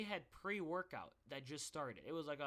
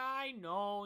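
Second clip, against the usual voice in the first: high, loud wail of agreement; acted exasperated yell; frantic admission; 5 semitones higher, 8 dB louder than usual. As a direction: cry it out in mock despair. Retold panicked reply to mom.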